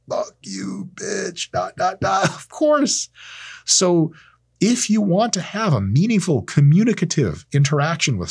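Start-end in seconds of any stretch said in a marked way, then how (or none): 0.1-2.3 whispered, high insult; hissed insult. Retold or imitated. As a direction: breathe the insult under your breath. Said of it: "Nine hundred ninety-nine ... is like".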